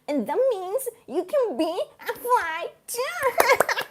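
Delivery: sing-song voice lecturing a fly; high playful voice. Pretend. Talking to a fly.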